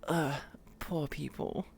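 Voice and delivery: "Ugh, poor people" drawn out slowly, dismissive; snooty sneer. Shown as a demonstration. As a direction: look down your nose at them. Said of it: "although I can say".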